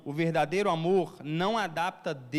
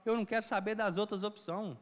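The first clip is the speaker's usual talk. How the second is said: raised, fervent vow to forgive; fervent resolve; 5 semitones higher than usual. Retold or imitated. Preacher voicing love that chooses to forgive, fervently. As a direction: declare it like a conviction. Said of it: "É esse amor".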